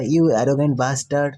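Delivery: slow, dragged-out insult; mild mock anger. Angry Asura insulting Hajin, slow mock anger. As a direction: spit out each word slowly and deliberately. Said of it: "बहुत ही गुस्से में आ जाता है".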